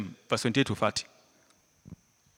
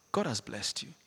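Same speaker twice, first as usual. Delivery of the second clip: usual speaking voice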